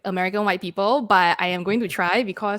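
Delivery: full Singaporean English accent. Shown as a demonstration. Singaporean host proves her roots to co-hosts, in a Singaporean accent. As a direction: lay on your home Singaporean accent. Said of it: "my Singapore accent".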